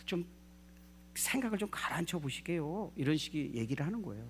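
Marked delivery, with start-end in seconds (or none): 0.1-2.9 softly coaxing, gently acted; respectful soothing. Servant calms his angry master, respectful soothing. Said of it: "좀 달래는 거거든요".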